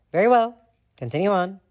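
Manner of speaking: high, loud dismissal; stern librarian. A narrator's reading.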